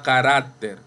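carácter said ca-RÁC-ter; stress on middle syllable. Shown as a demonstration. Teacher giving the next example, carácter stressed ca-RÁC-ter. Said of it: "Penúltima sílaba".

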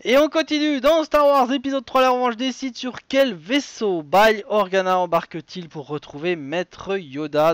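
punchy game-show question read, starting high and loud; high attack settling into an emphatic question; quiz host announcing. Acted. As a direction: launch the next question with presenter energy.

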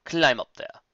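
high, slow, silky villain voice; sinister villain. Acted. Bloodwing greets the captive filly, slow and sinister. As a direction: savour every word like a predator.

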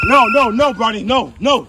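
yelling from the sidelines. Real, not acted. Dad yelling at son's flop.

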